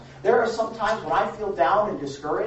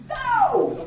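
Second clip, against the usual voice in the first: laughing no; 6 dB louder than usual. Real, not acted. Laughing outburst.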